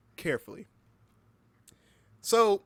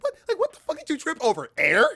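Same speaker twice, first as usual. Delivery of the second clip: yelling; 10 dB louder than usual. Pretend. Yelling at horror movie victim.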